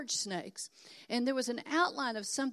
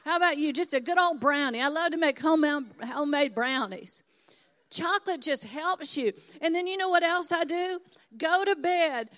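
excited; 5 semitones higher, 8 dB louder than usual. Real, not acted. Excited chat about brownies.

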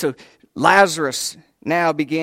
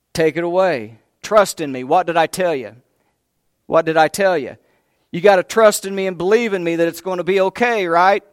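urgent insistence; 2 semitones higher, 6 dB louder than usual. Acted. Jesus urging Martha to trust.

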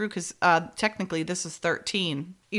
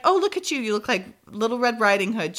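fake-nice jab at her; snarky; 3 semitones higher, faster than usual. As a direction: Francine teasing Amanda, snarky mock sweetness. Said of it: "Francine's so snarky".

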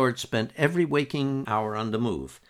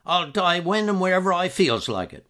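put-on higher, feisty old outport man; lightly voiced cantankerous old man with a laugh; old Uncle George; 8 semitones higher, 6 dB louder than usual. A narrator's reading. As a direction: play the stubborn old fisherman, higher.

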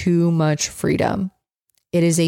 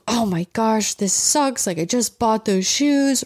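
higher, exasperated mock rant; imitating an owner upset about chewed shoes, higher and exasperated; mock frustrated owner; 4 semitones higher than usual. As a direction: play the owner fuming over ruined shoes. Owner furious over chewed shoes.

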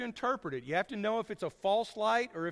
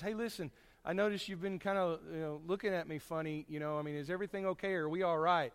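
softer, quick, offhand friend asking; casual friendly check-in; 4 dB quieter than usual. Retold or imitated. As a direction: toss it off like a friend. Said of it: "if somebody says".

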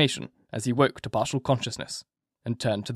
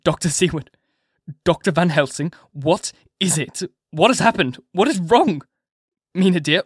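higher, louder, panicked outcry; a husband waking to horror, crying out in fear; frantic cry; 6 semitones higher, 4 dB louder than usual. A narrator's reading. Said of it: "Harker cried out".

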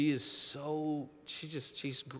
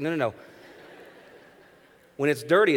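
emphatic explaining; 3 semitones higher, 10 dB louder, much faster than usual. Retold or imitated. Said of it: "She's like".

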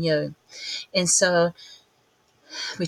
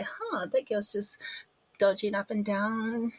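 put-on much softer, curious kids; hushed kids; 2 semitones higher, 7 dB quieter than usual. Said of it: "They're like".

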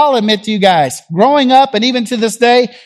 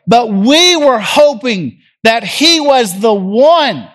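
sad longing; slower than usual. Acted. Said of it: "Can you hear the sadness in their voice?".

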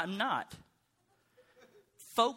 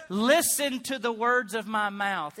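lightly intoned appeal to God; put-on praying, measured; prayer voice; 2 semitones higher than usual. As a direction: recite it as a mild prayer. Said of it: "That's his prayer voice".

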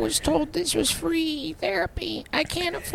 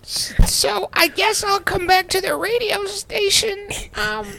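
exasperated shout; 4 dB louder than usual. Acted. Patient dying, exasperated outburst.

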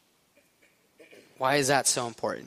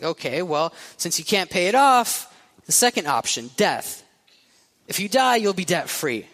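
put-on louder, higher Italian mob boss accent; Italian mobster accent; 3 semitones higher, 3 dB louder than usual. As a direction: threaten the debtor in an Italian accent. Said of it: "the mob boss is like".

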